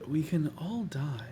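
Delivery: whispered, grave aside; hushed concern. Acted. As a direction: whisper it as a sobering realisation. GM corrects giggles to worried murmur.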